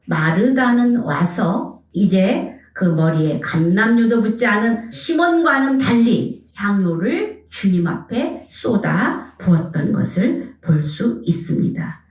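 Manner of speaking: usual speaking voice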